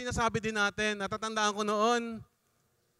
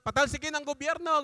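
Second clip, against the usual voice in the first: higher-pitched imitation of a slogan; mock protest shout; 5 semitones higher than usual. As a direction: chant it like a protester, only mildly raised. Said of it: "hindi na sila sumisigaw ng". (ginagayang sigaw sa rally)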